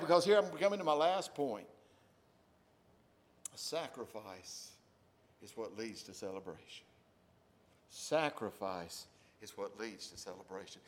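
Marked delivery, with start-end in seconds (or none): 3.5-10.8 slow and deliberate; slow emphasis. Acted. Pastor stressing the main point slowly. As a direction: lay down each word of the point. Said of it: "get this".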